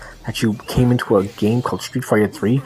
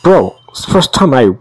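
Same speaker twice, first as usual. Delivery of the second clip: loud rant; 3 semitones higher, 6 dB louder than usual. Real, not acted. Ranting at the hardest boss.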